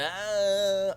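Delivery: high, drawn-out mock whine; imitated whine of pain; whining cry. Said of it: "he whines when he's getting Electra".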